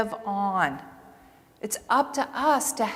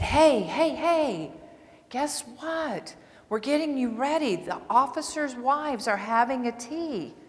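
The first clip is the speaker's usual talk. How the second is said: soothing coax; 2 semitones higher than usual. Retold or imitated. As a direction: sweet-talk him into getting dressed. Soothing agitated patient before care.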